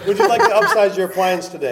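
laughing mock cashier upsell; giggling through a cashier pitch.

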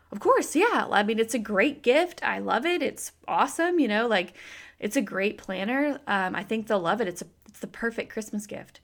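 oversell it like an enthusiastic friend; gushing praise. Retold or imitated. Friend Stephanie praising the planner.

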